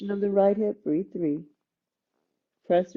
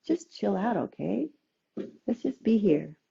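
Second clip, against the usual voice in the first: softer, laid-back reassurance; easygoing right brain; 4 dB quieter than usual. Acted. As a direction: soothe like a relaxed friend. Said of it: "Let the right brain come in and say".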